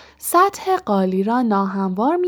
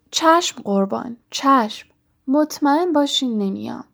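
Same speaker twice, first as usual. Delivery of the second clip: higher-pitched, eager-to-please assent; servile obedience; 4 semitones higher than usual. Acted. Poltergeist obeying the Baron, servile and higher. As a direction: fawn like a cowed servant.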